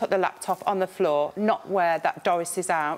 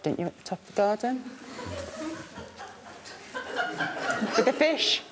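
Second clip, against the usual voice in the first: laughing; 6 semitones higher, 5 dB quieter than usual. Real, not acted. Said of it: "laughs while teasing husband".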